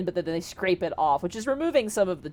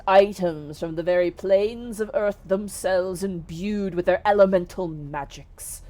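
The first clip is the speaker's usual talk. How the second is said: stately genie vouching for the treasure; a touch of solemn salesmanship; lightly voiced grand genie; 3 dB louder than usual. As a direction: proclaim it with measured, earnest emphasis.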